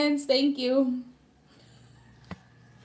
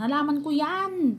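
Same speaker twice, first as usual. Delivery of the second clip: higher, slow mock scold; imitating angry mother; 6 semitones higher than usual. Mother claiming her plants, slow mock angry scold. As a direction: drag out the complaint like a fed-up mother. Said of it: "sabi niya".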